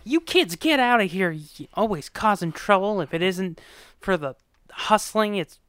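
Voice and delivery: hammed-up telling-off; mock scolding. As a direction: imitate a cranky adult shooing kids off. Retelling angry woman shooing kids.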